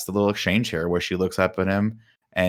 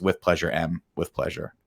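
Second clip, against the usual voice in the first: suave Bond reply. Retold or imitated. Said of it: "and he goes".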